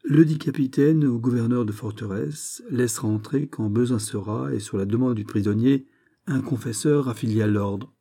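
even, recited clause; formal recitation; reciting from a book. A narrator's reading. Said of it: "de la même voix que s'il le lut dans un livre".

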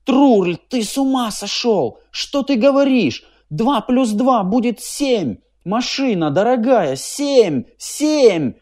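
very high, shrill panicked shouting; panicked yelling. A narrator's reading. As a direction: scream to drown out his friend. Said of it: "вопил Клопауций". (Клопауций в панике перекрикивает друга)

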